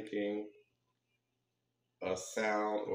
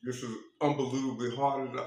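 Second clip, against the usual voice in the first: laughing; 3 semitones higher, faster than usual. Real, not acted. Laughing while eating candy.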